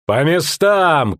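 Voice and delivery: high, slow drawn-out order; captain shouting her soldiers to their posts; commanding shout. A narrator's reading. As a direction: snap them to their posts. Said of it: "крикнул Райла".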